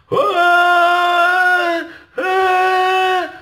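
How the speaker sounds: high, loud mock cheer; imitating the crowd clapping; mock audience cheer. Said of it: "All of them go clap".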